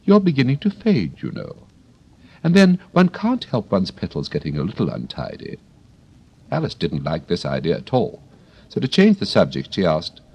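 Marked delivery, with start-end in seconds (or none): 0.0-5.6 kindly. Acted. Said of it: "the Rose added kindly".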